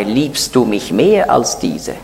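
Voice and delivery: slow, solemn question, weight on mehr. Retold or imitated. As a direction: ask it slowly with the word mehr leaned on. Jesus asks Peter solemnly.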